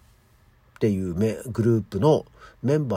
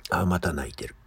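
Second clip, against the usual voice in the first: whisper; 4 semitones lower, 5 dB quieter than usual. Retold or imitated. Half-asleep, cat crying again.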